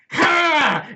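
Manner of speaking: high, loud goblin cry of glee; goblin triumph shout. Retold or imitated. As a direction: shout it out like a delighted goblin who just had an idea. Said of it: "and then he goes".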